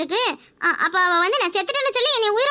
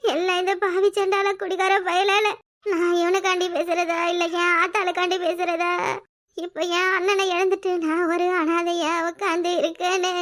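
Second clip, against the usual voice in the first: tearful; 2 semitones lower than usual. Acted. Weeping over lost brother.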